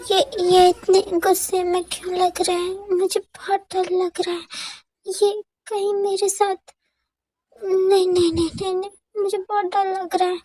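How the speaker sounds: lightly voiced scared girl, stammering; mild fright. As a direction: whisper her fear to herself, a touch shaky. Jimin frightened thoughts. (हल्का सा डरा हुआ मन ही मन बोलना)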